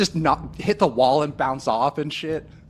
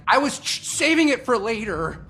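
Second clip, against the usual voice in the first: sheepish high voice, slowing down; in-character excuse; 8 semitones higher than usual. Retold or imitated. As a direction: caught eating, make an excuse. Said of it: "I'm like".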